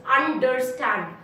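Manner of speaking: understand slowly in three beats, un-der-stand; syllable by syllable. Shown as a demonstration. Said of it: "three syllables".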